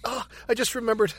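mock breathless, laughter creeping in; quick, strained imitation of gasping talk; struggling to breathe. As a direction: squeeze it out as if winded by pain. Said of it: "trying to breathe".

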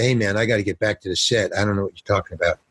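fast, low excuse to get away; hurried brush-off. Retold or imitated. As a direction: rattle off a quick retold excuse. Retelling a man excusing himself.

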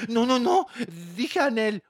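high, loud panicked backpedal; flustered denial. Retold or imitated. Reporter caught out, loudly backpedalling to Anel. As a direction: scramble to take it back. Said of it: "Y él dijo".

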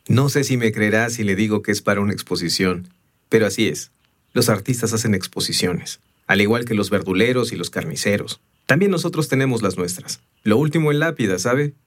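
a touch livelier, amused craftsman's talk; lightly voiced stonemason. Stonemason explaining his exhibition piece to a stranger, lightly animated. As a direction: lightly play a chatty monument mason.

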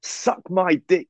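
slow, drawn-out crude taunt; imitating a rude guy, slowly; mock rude taunt. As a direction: drag it out like a lout mocking her. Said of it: "he just turns to her and he just goes".

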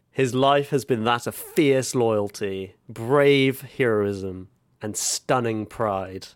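slow, grand mock-heroic delivery; mock solemn tribute. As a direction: read it like a pompous eulogy. Grand eulogy style.

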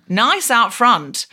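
slow, loaded nice; suggestive drawl. Retold or imitated. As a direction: lean on nice with innuendo. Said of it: "she said".

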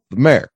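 "mayor" squeezed into a single syllable, like "mare"; one-syllable mayor. Shown as a demonstration. Explaining hometown speech to co-host, "mayor" as one syllable. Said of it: "elected leader of a town is one syllable".

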